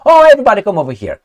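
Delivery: sarcastic imitation of open arms; mocking welcome. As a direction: parody a naive open invitation, quick and bright. Mocking open-border attitude.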